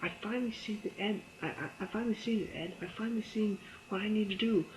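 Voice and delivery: high, quick, far-off musing as Peggy; imitating Peggy's dazed realization; dreamy Peggy.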